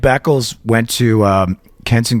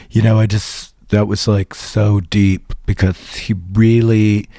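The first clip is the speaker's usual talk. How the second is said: pretentious art lover; 3 semitones lower than usual. Retold or imitated. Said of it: "overhear this talking to her friend going".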